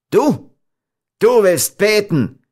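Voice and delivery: loud, high jeering outcry; fiendish scorn. A narrator's reading. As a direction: throw her prayer back with derision. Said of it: "mit dem gleichen teuflischen Hohn".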